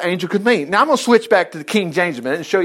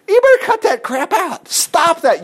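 stern rebuke; 11 semitones higher than usual. Retold or imitated. Preacher voicing a stern rebuke.

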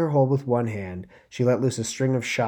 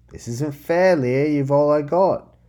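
pleading; 6 semitones higher, 8 dB louder, slower than usual. Acted. Friend pleading before sacrifice.

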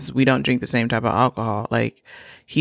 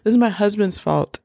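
mock protest; 8 semitones higher than usual. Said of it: "and then I was like".

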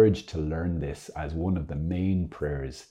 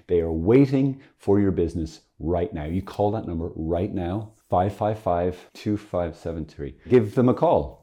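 a hammed-up infomercial pitch, a little louder; mock hotline ad; 4 dB louder than usual. Speaker jokes that viewers can phone heaven, mock ad pitch. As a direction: sell the saints like a late-night phone line ad.

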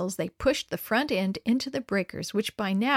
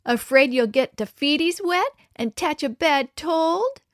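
higher mocking baby-talk voice; mock him in baby talk; cooing baby voice to tease a friend; baby talk taunt; 6 semitones higher, 5 dB louder than usual. A narrator's reading. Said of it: "Mama's little boy".

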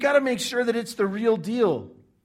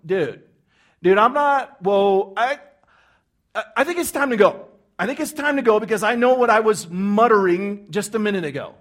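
louder, hurried nervous backing off; nervous self-righteous; 7 dB louder than usual. Acted. Self-righteous listeners realizing they are caught, flustered. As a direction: edge toward the exit, flustered. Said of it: "self-righteous people going".

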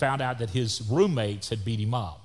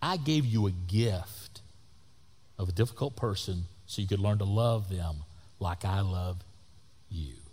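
tender reproof; 5 semitones lower, 4 dB quieter than usual. Retold or imitated. Voicing God's message to him.

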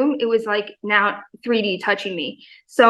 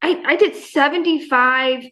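thrilled disbelief; 3 semitones higher than usual. Retold or imitated. Thrilled at own workout.

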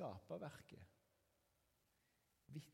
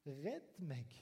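mild cry for rescue, a little louder; desperate cry to God; 5 dB louder than usual. Acted. Preacher voicing the cry from the depths to God, restrained urgent call. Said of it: "livsviktig rop til Gud".

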